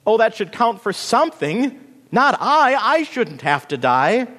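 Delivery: high, loud, desperate pleading; shrieking protest. A narrator's reading. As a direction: plead your case at a frantic high pitch. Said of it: "shrieked Bean Plant".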